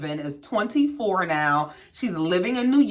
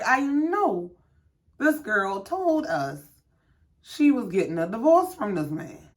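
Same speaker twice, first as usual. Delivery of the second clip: mock disbelief; 3 dB quieter than usual. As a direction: space it out as if stunned by a lie. Acted silent disbelief of two friends.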